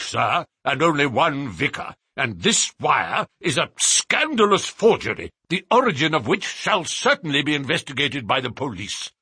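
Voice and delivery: lightly voiced indignant clergyman; pompous vicar. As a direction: huff and dismiss them. Vicar dismisses the visitors.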